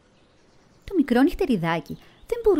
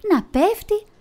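πέφτει pushed much higher and louder; falling, climax; 11 semitones higher, 4 dB louder, slower than usual. A narrator's reading. Narrator tells the bat falling, highest and loudest. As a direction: peak of the fall on πέφτει. Bat falls, words repeat rising.

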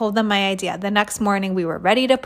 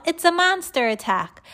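high-pitched alarm call; kid yelling; 8 semitones higher than usual. A narrator's reading. Kid warning the hallway of monsters, yelling high. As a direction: raise the pitch in mock panic. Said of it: "some kid yelled".

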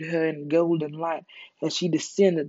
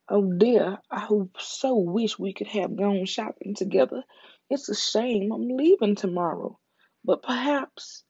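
lightly voiced Veronica; 3 semitones higher than usual.

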